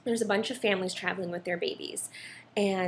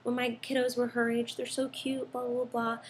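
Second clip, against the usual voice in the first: imitated gushing mom, higher pitched; admiring cooing; 5 semitones higher than usual. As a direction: coo over a baby, lightly mimicked. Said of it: "admiring Savannah".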